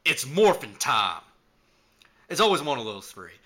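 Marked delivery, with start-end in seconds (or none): 0.1-1.2 loud, slow heroic call; shouted catchphrase. Retold or imitated. Cowboy calling out his transformation, in a slow shout. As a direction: announce the transformation, stretching the words out. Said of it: "every once in a while I'll shout".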